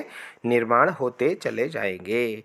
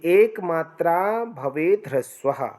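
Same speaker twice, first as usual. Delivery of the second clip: reciting a shloka; slower than usual. Shown as a demonstration. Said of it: "ये श्लोक भी आता है".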